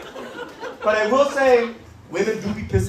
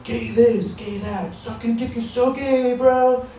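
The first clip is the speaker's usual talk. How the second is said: mock straight bro, pitched up; bro comic impression; 6 semitones higher, slower than usual. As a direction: ham up a dudebro comic. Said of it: "they're like".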